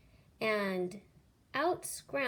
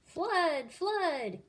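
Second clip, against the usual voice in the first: much higher, louder alarm call; shouting flood; 8 semitones higher, 5 dB louder than usual. Acted. Jack fakes a flood warning to the birds. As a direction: cry out in mock panic. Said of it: "he cried".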